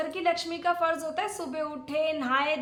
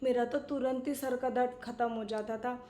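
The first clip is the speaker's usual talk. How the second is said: low, soft, fond recollection; fond reminiscing; 3 semitones lower, 3 dB quieter than usual. Acted. Aunt praises husband's head massage, fond reminiscing. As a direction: recall it softly and lovingly.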